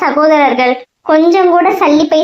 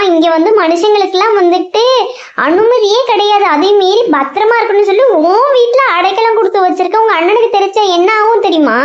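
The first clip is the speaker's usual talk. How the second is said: higher-pitched, urgent warning; alarmed scolding; 4 semitones higher than usual. Acted. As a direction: scold a friend for breaking the rules. Maasi scolds Boomu for sheltering humans. (பதற்றத்துடன் கண்டிக்கும் எச்சரிக்கை)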